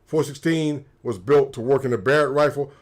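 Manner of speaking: ordinary talk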